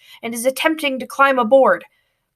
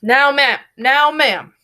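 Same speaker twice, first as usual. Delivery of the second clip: a little louder, self-assured; proud start; 3 semitones higher, 4 dB louder, slower than usual. A narrator's reading. Boy proudly addresses the passenger. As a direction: puff up before the line. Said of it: "he says proudly".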